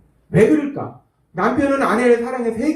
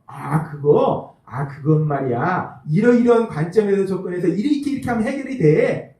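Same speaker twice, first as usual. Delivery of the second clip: 자랑스러운 남편; 3 semitones lower than usual. Retold or imitated. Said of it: "신나게 그 일의 해결책을 자랑스럽게".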